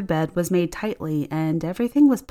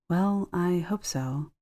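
slow, softer, unsure reply; hesitant; 5 dB quieter, slower than usual. Acted. Wife unsure husband returns, softly and slowly hesitant. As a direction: hold back, soft and slow, doubting it. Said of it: "Monica said hesitantly".

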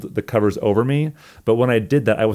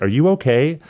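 higher-pitched roommate's question; retold concerned roommate; 7 semitones higher than usual. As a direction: imitate a roommate checking through a door. Retelling roommate knocking on door.

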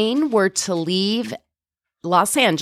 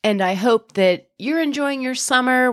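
blocked nose from a head cold; talking through a stuffy head cold. Real, not acted. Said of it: "I know I sound a little stuffy today".

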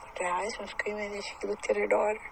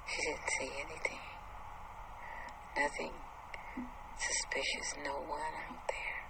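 hushed suspense narration; 2 semitones lower, 9 dB quieter than usual. A narrator's reading. Suspense narration while creeping downstairs.

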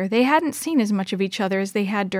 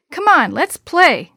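urging; 6 semitones higher, 6 dB louder, slower than usual. A narrator's reading. Urging friends back to the game.

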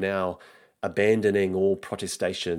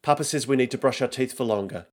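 put-on young son; 5 semitones higher, faster than usual. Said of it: "says Nico".

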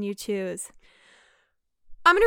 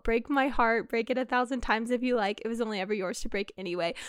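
heartfelt; 5 dB quieter than usual. Acted. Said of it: "back to very heartfelt".

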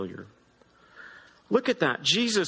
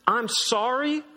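mocking echo; 4 semitones higher, slower than usual. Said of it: "but, like".

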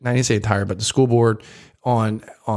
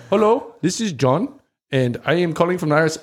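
higher-pitched put-on scam caller; scam caller impression; 4 semitones higher than usual. Podcaster demonstrating what fake IRS calls sound like, higher mimicking voice. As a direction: imitate a phone scammer introducing himself, pitched up. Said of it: "this is what it sounds like".

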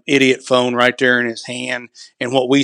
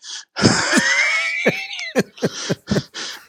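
big laugh; 4 dB quieter than usual. Real, not acted. Loud laugh at own joke.

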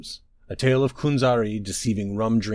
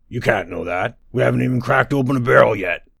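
dim booming giant; 2 semitones higher, 5 dB louder than usual. Acted. Ogre objects, dim giant.

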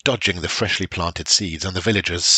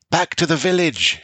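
shouting; 10 semitones higher than usual. A narrator's reading. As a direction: shout the order over the storm. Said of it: "shouted the Elder Seer".

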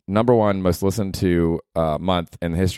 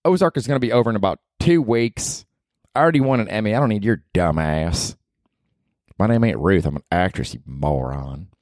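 lightly voiced actress; 3 semitones higher than usual. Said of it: "Where's Ruth? I miss Ruth".

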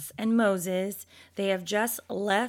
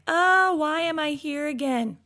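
a whiny, complaining sigh, higher pitched; mock whiny; 5 semitones higher, 3 dB louder than usual. Preacher mocking her own whiny moments: high, loud whine. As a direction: whine it like a sulky child. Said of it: "those whiny times and be like".

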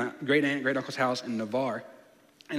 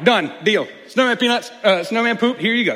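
put-on eager kid; 5 semitones higher, 6 dB louder than usual. Eager kid trading away gift.

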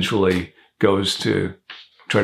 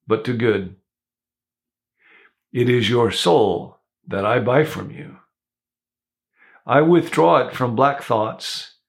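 solemn bishop. Acted. Bishop blesses the thief, solemn and unhurried. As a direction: lay each word down solemnly, like a vow. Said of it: "He resumed with solemnity".

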